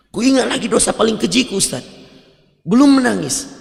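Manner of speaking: building up to a frustrated complaint; rising frustration. Retold or imitated. Worshipper complains to the ustaz, exasperated.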